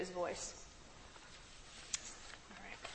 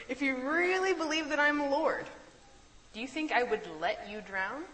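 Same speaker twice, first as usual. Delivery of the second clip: Jesus's rebuke; 6 semitones higher, 4 dB louder than usual. Retold or imitated. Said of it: "Jesus's words retold".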